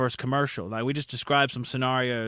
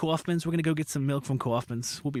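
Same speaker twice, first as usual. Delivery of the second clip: put-on upstate New York accent; 3 semitones higher than usual. Telling a guest about relatives from upstate New York, imitating their New York accent. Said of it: "they had the accent too".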